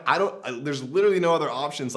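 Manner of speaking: fast, loud, panicked. Retold or imitated. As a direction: rush it out in panic. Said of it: "I'm like".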